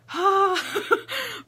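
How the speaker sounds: big high audible sigh; acted breath out to calm down. Acts calming herself with a breath.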